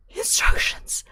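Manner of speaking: sheepish whisper. Real, not acted. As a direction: whisper it like a guilty confession. Whispered admission mid-game.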